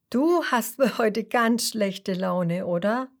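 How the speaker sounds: slow, tender question; lovingly. Acted. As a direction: ask gently like comforting a sad friend. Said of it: "fragt er sie liebevoll".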